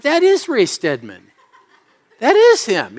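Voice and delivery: retold stunned realisation, stressing IS; mock freak-out. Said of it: "and I'm freaking out".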